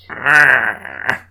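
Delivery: growling reindeer roar; a short beastly growl. Acted. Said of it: "That's my reindeer voice".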